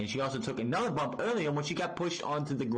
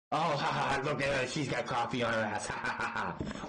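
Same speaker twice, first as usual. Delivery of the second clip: mock chuckling. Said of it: "This is his humor".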